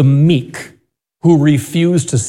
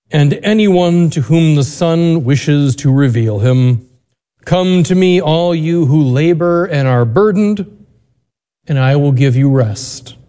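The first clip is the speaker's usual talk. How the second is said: Gospel reading. Acted. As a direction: read scripture aloud with reverence.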